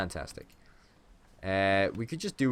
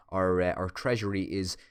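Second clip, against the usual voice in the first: put-on voice; slower than usual. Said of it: "I don't really know why I've gone like that".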